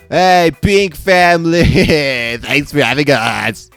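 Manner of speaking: high, drawn-out holler hello; loud greeting. Acted. Guest greeting the Pink family at the door, high loud holler. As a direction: call out big and high, slowly.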